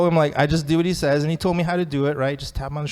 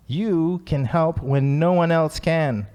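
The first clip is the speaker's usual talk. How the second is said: slow emphasis; 3 semitones higher, much slower than usual. Shown as a demonstration. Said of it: "slow emphatic quote".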